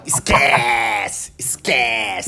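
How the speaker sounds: cocky footballer brush-off. Retold or imitated. Player taunting rivals after a goal, mock cocky brush-off. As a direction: strut it like a player who just scored. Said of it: "o cara fala".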